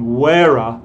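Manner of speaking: "where" run into a weak are, like "wher-uh"; "where" as casual "where-uh"; reduced "where are". Shown as a demonstration. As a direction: say "where" with an uh tacked on. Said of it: "vas a escuchar esos".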